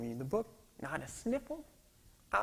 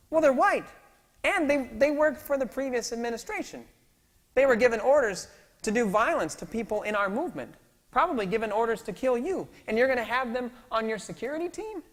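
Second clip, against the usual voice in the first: much higher, louder urgent protest; heated objection; 9 semitones higher, 9 dB louder than usual. Retold or imitated. Security head objecting to Mandela, heated high protest. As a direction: push back hard and fast.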